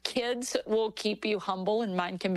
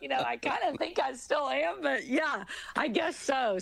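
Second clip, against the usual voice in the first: lightly voiced dry dad, a bit higher; dad's wry reply; 6 semitones higher than usual. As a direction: play dad shrugging it off with a grin. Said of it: "And he's like".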